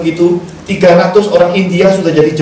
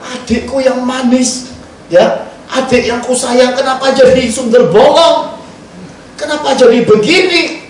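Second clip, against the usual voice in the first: tearful lament; 6 semitones higher than usual. Retold or imitated. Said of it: "Saya nangis waktu itu".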